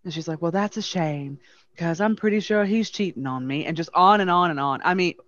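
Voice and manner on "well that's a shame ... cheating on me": lightly imitated Southern Belle; Southern Belle accent. Wronged wife to hotel clerk, lightly imitated Southern Belle accent. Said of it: "exactly how this woman talked".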